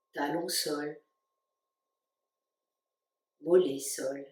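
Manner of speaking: calm, spacious delivery with long pauses between phrases; guided meditation. Real, not acted. Yoga teacher guiding listeners to stay awake while the body sleeps, guided meditation. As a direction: lead them unhurriedly into rest, phrase by phrase. Leads a yoga nidra relaxation.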